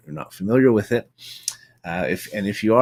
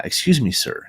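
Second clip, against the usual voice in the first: a little irritated; 4 semitones higher, 3 dB louder than usual. Retold or imitated. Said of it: "he's a little irritated too".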